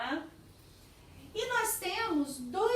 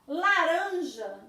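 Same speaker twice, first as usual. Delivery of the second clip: slow sounding out; 6 dB louder, much slower than usual. Shown as a demonstration. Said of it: "não tem nenhuma vogal aqui".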